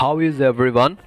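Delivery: drawn-out, word-by-word model sentence; slow model phrase. Shown as a demonstration. Teacher gives viewers a phrase to translate, slowly. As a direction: say it slowly for learners to follow.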